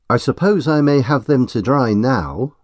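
firm and decided; resolute. Acted. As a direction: insist politely but firmly. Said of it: "she says resolutely".

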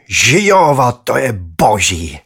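high, loud cry of joy, then slowing; a boy cheering at great news; jubilant. A narrator's reading. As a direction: rejoice out loud like a thrilled kid. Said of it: "zajásal jsem".

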